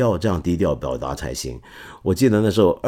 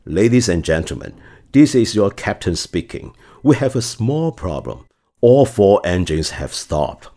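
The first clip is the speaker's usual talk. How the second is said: pilot announcement. Retold or imitated. Captain telling passengers about engine failure, calm PA announcement. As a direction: announce it as if it were routine. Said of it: "他的广播是怎么样的".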